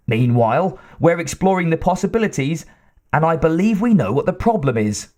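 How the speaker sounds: nervous but recovering; hesitant scientist. Acted. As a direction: scientist explaining to his intimidating boss, hesitant. Wyckoff explains.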